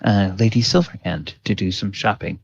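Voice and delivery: smooth, courteous boutique greeting; polished saleswoman. Acted. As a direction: welcome the shoppers like a practiced saleswoman. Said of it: "she will say".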